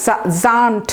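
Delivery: জান্ট with a z sound and open a; pronunciation demo. Shown as a demonstration. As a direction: say জান্ট clearly, starting on a buzzed z. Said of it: "এসএএনটি কি হবে".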